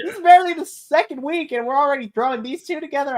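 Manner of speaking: high, fast incredulous rant; disbelief. Retold or imitated. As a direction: rattle off the disbelief. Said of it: "I was like".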